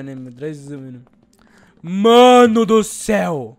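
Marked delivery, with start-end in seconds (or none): 1.8-3.6 slow, loud drawn-out exclamation; amazed shout. Real, not acted. Gamer stunned by a huge cave, loud slow awed cry.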